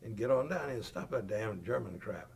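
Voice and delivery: retold holler up the ditch, yelling at a friend he thinks is joking; annoyed call to a buddy he thinks is fooling around; hollering back. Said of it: "I hollered back".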